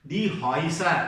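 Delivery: "Häuser" with the umlauted vowel sounded "oy"; pronunciation demo. Shown as a demonstration. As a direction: model "Häuser" as HOY-sa for learners. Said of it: "ഇതിന്റെ pronunciation പ്രത്യേകിച്ച്". ("Häuser" എന്നത് "ഹോയ്സ" എന്ന് ഉച്ചരിച്ചു കാണിക്കുക)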